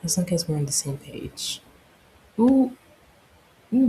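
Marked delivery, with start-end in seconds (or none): 2.4-3.9 high gasp of delight; a thrilled high ooh. Real, not acted. Player reacting to the choking, high delighted ooh.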